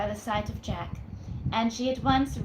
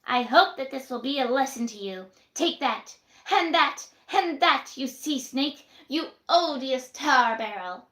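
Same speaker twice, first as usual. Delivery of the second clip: furious landlady; 3 semitones higher, 5 dB louder than usual. Acted. Missus Williams beating Jack with the dish, rising fury. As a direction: hammer each word like a blow.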